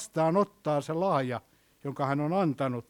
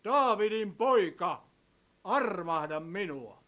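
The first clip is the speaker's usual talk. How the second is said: drawn-out plea, only mildly raised; slow, higher-pitched imitation of a beggar's call; retold calling out; 3 semitones higher, slower than usual. Preacher voices blind Bartimeus calling to Jesus, mild cry. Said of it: "hän rupesi huutaa".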